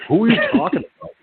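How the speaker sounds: fast, high, laughing question; laughing confusion. Retold or imitated. Friend asking who Tony means, laughing fast. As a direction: blurt it through a laugh, puzzled. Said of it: "I'm like".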